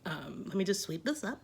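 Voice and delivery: calm self-talk. Retold or imitated. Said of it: "just be calm about it".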